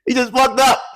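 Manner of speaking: put-on high teasing girl's voice; snickering girl. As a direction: sneer like a mean classmate. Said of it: "a girl in the back starts snickering".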